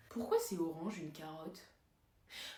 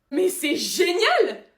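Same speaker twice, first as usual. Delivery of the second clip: stretched-out slow delighted cry, higher and louder; thrilled; 6 semitones higher, 8 dB louder, much slower than usual. Acted. Accountant learning he gets into heaven, thrilled. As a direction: savor the good news out loud. Told everyone goes to heaven.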